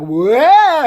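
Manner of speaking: high, loud mock "whoa"; comic pratfall yell. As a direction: yelp as if tumbling over. Acting out a pratfall.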